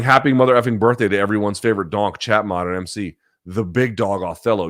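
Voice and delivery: loud birthday shout-out. Real, not acted. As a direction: shout it out for the big day. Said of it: "I'm shouting".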